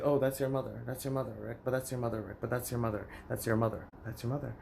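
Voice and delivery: mocking family refrain. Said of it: "everyone wants to say".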